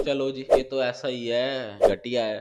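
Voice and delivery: slow, dismissive imitated brush-off; dismissive mockery. The vlogger mimics Tanya dismissing Shehbaz, slow and scornful. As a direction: drag it out with mock contempt. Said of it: "बाद में".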